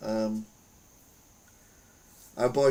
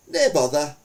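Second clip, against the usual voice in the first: put-on louder, jokey Scottish accent on two words; cheerful mock Scottish accent, a bit louder; 4 semitones higher, 7 dB louder than usual. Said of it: "That's my Scottish accent".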